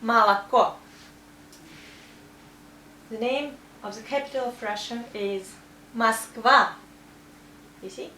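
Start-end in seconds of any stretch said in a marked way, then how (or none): 0.0-0.7 loud "Молоко" as ma-la-KO; first two O's of "Молоко" sound like A. Shown as a demonstration. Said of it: "sounds like A". 6.0-6.7 loud, clear "Moskva" as mask-VA; "Moskva" stressed on the end, O reduced to A. Shown as a demonstration. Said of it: "but we also say A because of stress".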